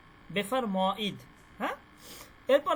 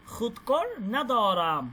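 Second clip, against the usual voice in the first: খুদকর না দরাম said slowly, খুদকর stressed; slow model phrase; 3 dB louder, slower than usual. Shown as a demonstration. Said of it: "না দরাম দেখেন". (খুদকর না দরাম ধীরে, খুদকর-এ জোর দিয়ে)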